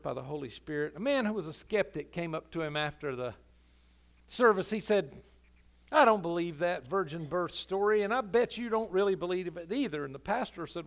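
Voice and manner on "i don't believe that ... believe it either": a loud, blunt challenge from a doubter; skeptic's challenge. Acted. Skeptic confronting the pastor after service, loudly challenging. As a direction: throw down the gauntlet to the preacher.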